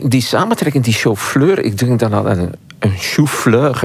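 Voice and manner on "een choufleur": "choufleur" said slowly, the French way; French pronunciation. Shown as a demonstration. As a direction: say "choufleur" as a French word, with "chou" as "shoo". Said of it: "een bloemkool in het Frans". ("choufleur" langzaam op z'n Frans)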